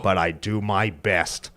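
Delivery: low, slow movie cowboy; slow cowboy impression; John Wayne. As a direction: finish slowly in a low western-star voice. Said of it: "this here's one of 'em".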